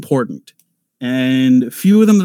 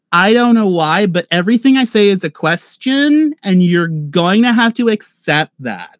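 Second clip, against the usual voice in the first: put-on light, higher Valley Girl lilt with questioning lift; 4 semitones higher than usual. Voice actor imitating a Valley Girl for the panel audience. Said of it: "The Valley Girl, which is the one who's like".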